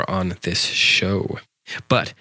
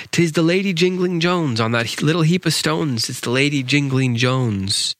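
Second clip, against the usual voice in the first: higher-pitched exclamation in verse; excited discovery; 7 semitones higher than usual. A narrator's reading. Suitor spots the lady on a heap of stones, excited. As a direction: cry out lightly on spotting her.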